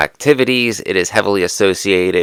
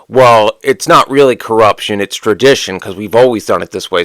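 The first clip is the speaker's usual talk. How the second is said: mocking excuse; 2 semitones higher, 5 dB louder than usual. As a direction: sneer the excuse as if it were reasonable. Mocking defenders of tradition.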